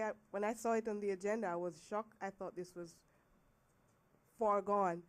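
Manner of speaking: rough voice, getting over the flu; hoarse from the flu. Real, not acted. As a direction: speak through a sore, hoarse throat. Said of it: "Excuse my voice. I'm just getting over the flu".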